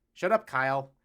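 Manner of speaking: loud mock put-down; dad telling Kyle to hush; teasing shout. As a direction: bark it at a pal. Teasing retort.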